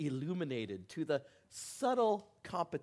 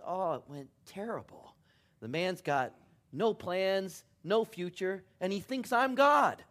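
father's punchline; 5 semitones higher, 4 dB louder than usual. Retold or imitated. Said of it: "and the father says".

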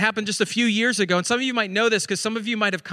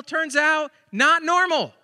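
"not normal" higher and punched; stress on not normal; 7 semitones higher, much slower than usual. Real, not acted. Pastor repeating punchline, stressing "not normal". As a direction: land "not normal" firmly. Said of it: "punchline repeat".

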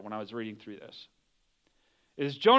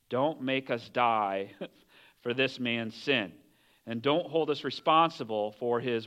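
slow, understated plea; pleading prayer; 4 semitones lower, 3 dB quieter, slower than usual. Acted. Sailors crying out to the Lord, mildly pleading. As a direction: plead slowly, without raising the voice. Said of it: "they pleaded".

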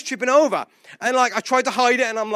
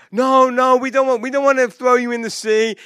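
higher, insistent refusal; mock protest; 4 semitones higher, 4 dB louder than usual. Sailors refuse to throw Jonah over, mock protesting. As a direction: protest in a raised, acted voice.

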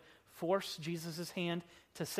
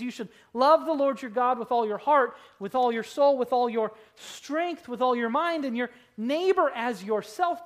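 loud, higher, preached recital of the commandment; lawyer's perfect answer; 3 semitones higher, 8 dB louder than usual. Retold or imitated. Pastor booming the lawyer's answer to Jesus, loud and high. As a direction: ring out each "with all your" line. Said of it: "He says".

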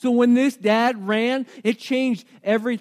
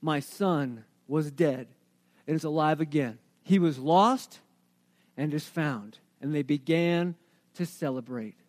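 hushed reading; 7 semitones lower, 6 dB quieter than usual. Retold or imitated. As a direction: let it drop to a hush. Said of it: "verse twenty-four".

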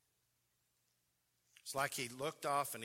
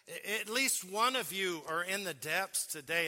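building preacher emphasis; 6 semitones higher, 7 dB louder than usual. Retold or imitated. Preacher repeats louder.

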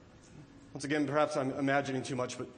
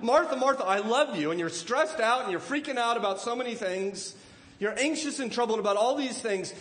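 loving, urgent reassurance; 5 semitones higher, 4 dB louder than usual. Acted.

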